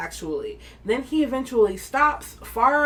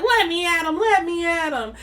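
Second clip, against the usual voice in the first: mock yell; 8 semitones higher, 4 dB louder than usual. Held back mid-fight.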